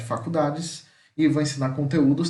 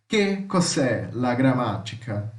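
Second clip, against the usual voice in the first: slow repeat; 4 semitones lower, much slower than usual. Shown as a demonstration. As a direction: repeat it slowly and clearly. (repetição lenta)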